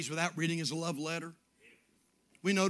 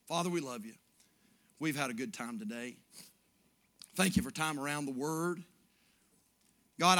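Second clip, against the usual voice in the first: closing prayer; 3 dB louder than usual. Acted. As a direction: pray over the congregation.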